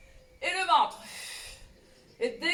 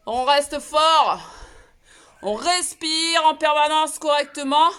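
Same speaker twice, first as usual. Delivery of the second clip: loud coaching; 5 dB louder than usual. Real, not acted. Ça hurle dans la maison.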